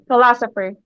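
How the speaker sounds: "philosopher" with emphasis on LO; teacher's careful stress demo of "philosopher", weight on LO; syllable stress. Shown as a demonstration. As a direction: lean on the second syllable of "philosopher". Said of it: "In philosopher".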